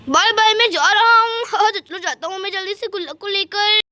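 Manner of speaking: lightly voiced villain taking his leave; gloating thief. Thief leaving with the piggy bank, gloating. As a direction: taunt her, laughing between phrases.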